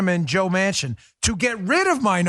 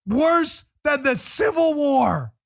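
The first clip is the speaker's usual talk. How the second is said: mock dramatic drawl; 9 semitones higher, much slower than usual. Repeats the slogan mockingly.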